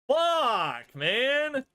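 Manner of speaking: high, loud cursing; frustrated shout. Real, not acted. Fan cursing a lost match, high frustrated shout.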